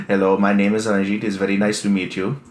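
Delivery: a light imitation of an Indian call-centre accent; mock Indian accent. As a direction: lightly voice an Indian telemarketer's accent, as if cold-calling. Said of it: "pretending I sound like that one guy".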